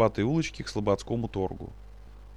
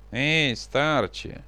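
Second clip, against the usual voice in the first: nasal call; 3 semitones higher, much slower than usual. Acted. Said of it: "негромко и гнусаво окликнул".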